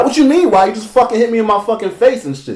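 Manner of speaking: indignant, high-pitched confrontation; mad retort. Retold or imitated. Confronting the sleeper who just hit him, mad. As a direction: retell it as an aggrieved, high-voiced complaint. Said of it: "Shit made me fucking mad as fuck".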